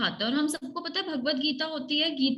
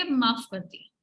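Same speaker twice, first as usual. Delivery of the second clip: forgiving demo; 3 semitones lower than usual. Shown as a demonstration. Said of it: "ऐसे करके बोलो".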